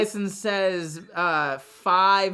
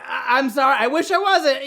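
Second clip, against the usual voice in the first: mock panicked apology; 5 semitones higher than usual. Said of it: "panic and be like".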